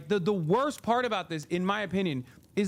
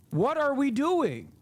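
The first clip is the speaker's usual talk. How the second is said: raised, slowed exasperated question; raised exasperated What are we doing; 5 semitones higher, slower than usual. Real, not acted. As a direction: ask it in disbelief, slowly. Exasperated rant.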